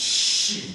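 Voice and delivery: very drawn-out shit, stretched out long. Imitating a tv character who says it really long: drawn-out shit. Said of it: "he says it really long".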